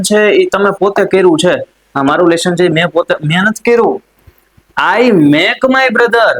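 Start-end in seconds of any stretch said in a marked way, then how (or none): 5.0-6.3 drawn-out, high, careful reading; very slow model sentence. Shown as a demonstration. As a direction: stretch every word for learners.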